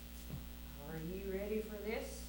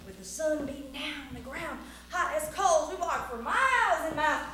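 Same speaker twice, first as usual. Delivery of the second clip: rolling, emphatic cowboy-tale telling; story narration; 6 semitones higher, 11 dB louder, slower than usual. A narrator's reading. Storyteller rides through Texas with lasso and horse, theatrical narration. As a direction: sweep the crowd along on the journey.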